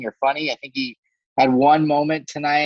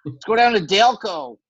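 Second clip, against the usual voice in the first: Philly accent; 4 semitones higher, 3 dB louder than usual. Shown as a demonstration. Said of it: "I can't do it at all".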